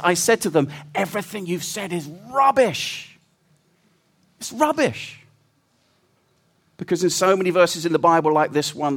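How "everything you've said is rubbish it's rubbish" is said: lightly voiced gentle pastor, rising on the last word; a hint of a pastor's kindly tone delivering a blunt verdict; mock pastoral voice. Pastor telling the small group their answers are rubbish, mock pastoral voice. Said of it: "in my best pastoral voice".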